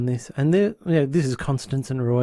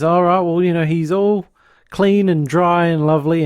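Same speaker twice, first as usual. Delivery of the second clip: higher, louder cheery British nanny; 4 semitones higher, 3 dB louder than usual. Retold or imitated. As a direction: sound like a proper British nanny. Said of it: "lovely Claire walks in".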